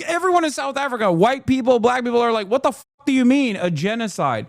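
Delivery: mock South Africans asking what genocide; mock incredulous South Africans. Mocks South Africans' disbelief.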